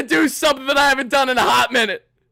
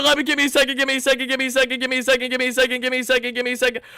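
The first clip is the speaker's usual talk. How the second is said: frantic looping mumble; much faster than usual. Real, not acted. Overwhelmed fan stalling for a second, frantic repetition. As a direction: rattle it off on a loop as it sinks away.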